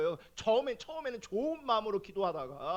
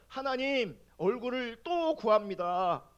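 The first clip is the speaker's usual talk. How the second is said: retold prayer; slower than usual. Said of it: "또 기도하는 거예요".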